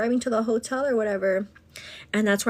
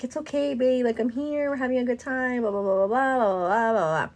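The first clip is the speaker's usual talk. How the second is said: sweet; 3 semitones higher than usual. Retold or imitated. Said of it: "I was still sweet".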